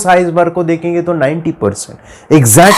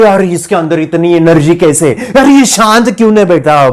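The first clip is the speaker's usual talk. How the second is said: lightly acted fed-up mother, rising at the end; exasperated mother; 2 semitones higher than usual. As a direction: mildly imitate a mother baffled by her child. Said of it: "mummy परेशान हो जाती है". (परेशान mummy की हल्की नकल)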